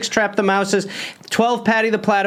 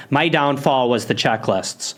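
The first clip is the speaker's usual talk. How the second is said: put-on Midwest accent; 5 semitones lower than usual. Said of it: "I'll do the Midwest accent".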